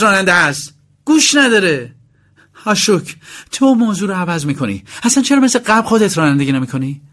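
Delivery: a sharp rich wife nagging her husband; angry wife voice. Acted. Wife character scolding husband.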